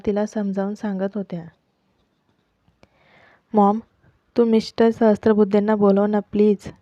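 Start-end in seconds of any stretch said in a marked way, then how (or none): 3.5-6.7 a touch of tearful pleading, louder; starting to cry. Acted. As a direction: beg mom through rising tears, understated. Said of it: "ती रडायला लागली".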